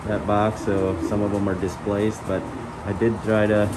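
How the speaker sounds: talking through a face mask; muffled voice behind a mask. Real, not acted. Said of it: "Sorry for the muffled, uh, voice".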